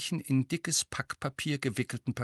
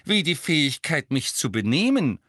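louder cheeky punchline; playful self-mocking witch; cheeky Tonks; 4 semitones higher, 5 dB louder than usual. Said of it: "sagte Tonks".

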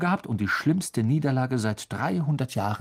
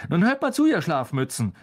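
higher, louder scolding call; stern rebuke; 6 semitones higher, 4 dB louder than usual. A narrator's reading. Wood scolding his sleepy players, higher and louder. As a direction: snap the team awake, raised and sharp. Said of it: "sah sie alle finster an".

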